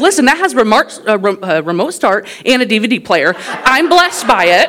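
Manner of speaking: half-laughing protest; emphatic defense. Retold or imitated. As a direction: justify it with mock indignation. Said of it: "I said".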